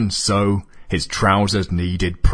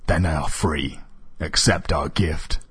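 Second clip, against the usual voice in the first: menacing; 3 semitones lower, 4 dB quieter than usual. Acted. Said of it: "smiling menacingly".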